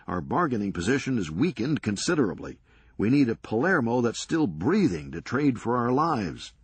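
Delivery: brisk, sardonic comeback; wry Serge. Acted. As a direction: toss it off dryly, quick. Serge explains.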